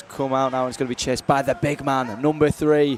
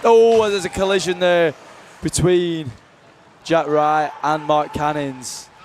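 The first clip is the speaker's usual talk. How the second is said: excited; 3 semitones higher, 4 dB louder, slower than usual. Real, not acted. Collision on the ice.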